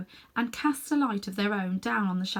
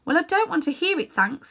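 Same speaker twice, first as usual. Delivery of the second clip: put-on boy refusing; 8 semitones higher, 6 dB louder than usual. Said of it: "said Diggory".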